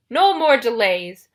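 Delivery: loud, slow monster order; impatient Cyclops. A narrator's reading.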